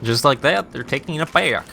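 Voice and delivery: a hint of Texan engineer twang; casting the play in a mild Texan accent. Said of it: "I don't know why I just did that accent".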